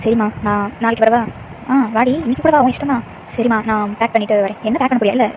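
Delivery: cheerful motherly chatter; loving mother on phone. Acted. Mother answering daughter's call, fond and cheerful.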